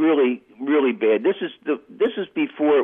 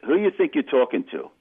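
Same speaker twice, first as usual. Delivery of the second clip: ape the mobster's threats with rising heat; menacing gangster; 5 semitones higher than usual. Retold or imitated. Retold mobster threatening on phone.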